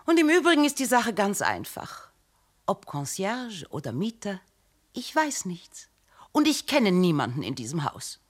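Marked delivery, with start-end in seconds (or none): 2.6-8.2 hushed whisper, almost no voice. Acted. Diplomat's wife whispering her denial to the detective. Wife denies knowing anyone, secretive.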